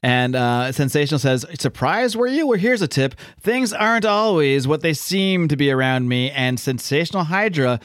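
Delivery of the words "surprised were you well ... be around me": high, slowing taunt; gloating villain. Retold or imitated. Sensational Hydra mocking Cap after his reveal, smug high taunt. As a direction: savor each word like a smug villain.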